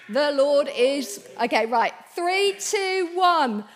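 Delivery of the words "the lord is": slow, louder lightly robotic Dalek; a hint of Dalek robot. Shown as a demonstration. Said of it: "let me try this".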